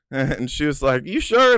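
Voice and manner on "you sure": high, louder doubting question; a cop who doesn't buy it; skeptical cop. Retold or imitated.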